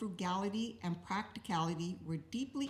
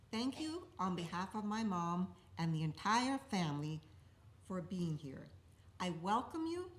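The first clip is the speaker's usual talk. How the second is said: gentle formal eulogy reading; faltering tender eulogy. Acted. Opens the eulogy.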